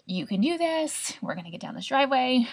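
high, coaxing self-encouragement; self pep talk. Retold or imitated. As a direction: talk yourself through it gently. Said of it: "And so I was like".

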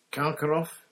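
high, loud burst of a name; wild. A narrator's reading. Harry bursts out with a guess to Moody, wild. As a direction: blurt it out wildly. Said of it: "said Harry wildly".

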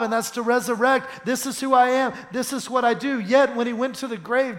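insistent pulpit delivery; forceful preaching. Real, not acted. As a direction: preach it with rising conviction.

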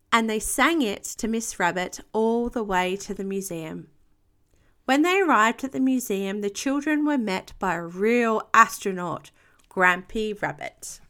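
put-on animated picture-book narration to a young child; expressive children's storytime voice; story reading. A narrator's reading. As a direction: read aloud with lively character lines and calm tags. Reads picture book aloud to child.

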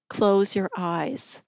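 slow, deliberate daughter's advice; calming instruction. Retold or imitated. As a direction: spell it out slowly for a panicking mother. Daughter instructs panicking mother.

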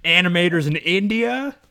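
loud, high, drawn-out cry; hammed-up indignant holler; outraged mock demand. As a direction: call it out slow and incredulous. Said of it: "gonna go and be like".

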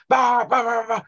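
high, whiny imitation of a moaning guard; mock moaning. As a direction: whine it out like a petty gatekeeper. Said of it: "starts moaning at you".

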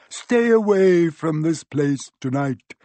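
loud, slow, hoarse command; croaking. A narrator's reading. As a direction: warn him off in a ghostly croak. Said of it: "croaked Harry".

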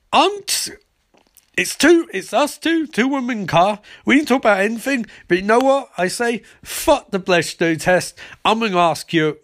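high, fast mock girly rant; hammed-up high-pitched Iris voice. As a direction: squeal it out like a giddy parody Iris. Iris voiced ranting in recap.

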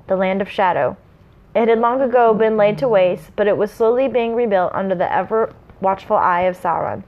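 measured storyteller's read; story narration. A narrator's reading. Reading the prologue to listeners, story narration. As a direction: read it out with mild dramatic weight.

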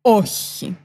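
a low, curt mock-menacing «Όχι»; hint of a sulky killer look; murderous no. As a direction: say «Όχι» low and cold, like a glare. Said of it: "πήρες το πιο δολοφονικό βλέμμα".

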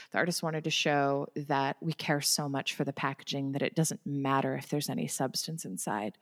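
put-on lightly done German accent. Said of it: "but in a German accent".

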